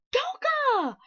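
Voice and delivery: high excited shout; joyful shout of discovery. A narrator's reading. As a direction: call out the name in delight. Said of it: "she shouted".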